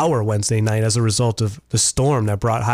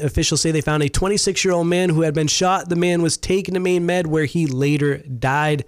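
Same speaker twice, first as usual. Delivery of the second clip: higher-pitched radio news delivery; news read; 4 semitones higher than usual. Real, not acted. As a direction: read out a local crime report. Reads the news.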